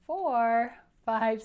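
loud counting. Shown as a demonstration. Counting dots aloud with class.

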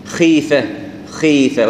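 "خيفة" with a clear long ee; light kha. Shown as a demonstration. Teacher showing the right form, light kh before ee. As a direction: keep the kh of "خيفة" weakly heavy. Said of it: "تعتبر ضعيفة".

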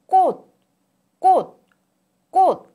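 꽃 said as kkot with a clear t stop; 꽃 ending pronounced t, repeated; exaggerated word endings. Shown as a demonstration. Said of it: "is pronounced as tu, as in".

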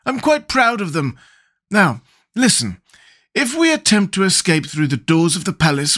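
a straw man pleased with his brains; Scarecrow voice. Acted.

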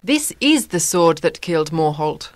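high, hushed realization from the queen; surprised. A narrator's reading. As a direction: recognize the sword in surprise.

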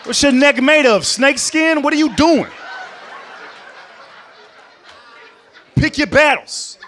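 loud, high mock scolding; yelling through the wall. Comic yelling advice at the neighbor woman through the wall.

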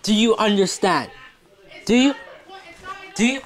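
mock telling-off through laughter, rising; laughing scold. Real, not acted. Owner laughing while scolding the pet. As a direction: scold the pet but can't keep a straight face.

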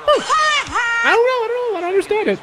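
high, soft, helpless laughing voice; baffled laughter. Real, not acted. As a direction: laugh through it in disbelief.

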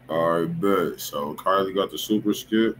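ordinary talk, nothing marked

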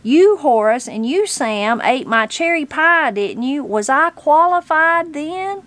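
indignant granny, rising to a high finish; launched into indignation. A narrator's reading. Granny confronts judges who ate her pie, indignant. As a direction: accuse each in turn, climbing to a high question. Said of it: "Granny was launched".

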